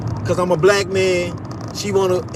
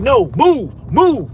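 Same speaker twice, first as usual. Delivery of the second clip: mock sharp order; 5 semitones higher, 4 dB louder, much slower than usual. Guard snapping back at him.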